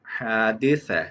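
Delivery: हादिसा with long first vowel and th-like स; Arabic pronunciation. Shown as a demonstration. Teacher reading out the written pronunciation, careful Arabic हादिसा. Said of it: "ये इसकी लिखी है pronunciation".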